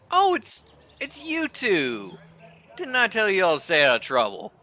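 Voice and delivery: high, surprised, then a quick scold; scolding Nine. Acted. Nine scolding the two troublemakers, high and quick. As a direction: catch them out and tell them off.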